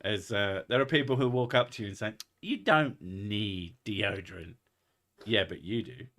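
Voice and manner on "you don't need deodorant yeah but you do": retold comedy bit. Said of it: "Jim Gaffigan bit".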